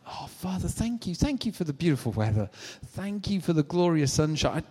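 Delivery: high, gushing thanks to God; overflowing joyful prayer; rejoicing prayer. Acted. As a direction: pour out delighted thanks, pitch lifted. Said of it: "If I come to Dad with rejoicing".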